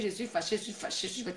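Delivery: mock sulky repeat that fades from soft to whisper; mocking "I'm upset". Host mocking Lorraine's complaint, sinking from soft to whisper. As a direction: parrot her complaint, dying away to a whisper. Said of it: "Elle vient avec ses fâcheries".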